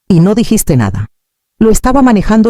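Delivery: un corte seco y más agudo; espeta. A narrator's reading. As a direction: lo suelta cortante, a la defensiva. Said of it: "espetó". (lo espeta con un tono alto y tenso)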